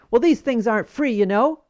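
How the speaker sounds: mild mock bark of a rude nurse; retold bark. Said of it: "the nurse barked in her face".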